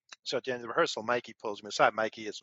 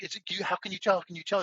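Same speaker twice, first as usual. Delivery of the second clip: astonished; 8 semitones higher, faster than usual. Retold or imitated. Wife astonished friend can tell.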